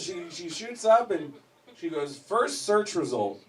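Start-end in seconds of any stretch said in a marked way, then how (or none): 2.2-3.4 deadpan reading. Acted. Wife reading search result.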